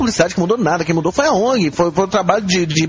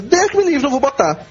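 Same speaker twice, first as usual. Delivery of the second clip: indignant client; 8 semitones higher than usual. Retold or imitated. Client refusing, quoted by adman.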